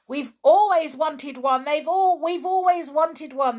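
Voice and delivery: high, loud gleeful clamour; excited shouting. A narrator's reading. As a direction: cry out like a greedy crowd. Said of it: "they shouted".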